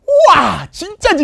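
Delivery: high, loud, gushing delight; overexcited gush. Retold or imitated. Teacher acting out an overeager guy, gushing loudly. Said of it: "이런 게".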